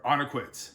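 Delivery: ONAQUIT ending in a T sound; final D as T. Shown as a demonstration. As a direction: close onaquit on a T. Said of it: "it's more of a T".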